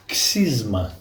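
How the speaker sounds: Greek pronunciation, ksizma; Greek word. Shown as a demonstration. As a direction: say xysma the Greek way, ksiz-ma. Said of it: "In Greek".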